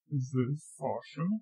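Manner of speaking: low, soft question. Pretend. Rehearsing a fake caller, soft low question. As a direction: ask it quietly in a deepened voice.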